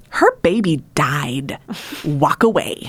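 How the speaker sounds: slow, flat-out blunt order; blunt tough girl. Retold or imitated. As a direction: lay it down slowly, no nonsense. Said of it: "she goes".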